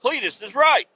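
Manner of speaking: high, loud astonished outburst; shocked that Cletus was right; stunned listener. Pretend. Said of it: "and you're like".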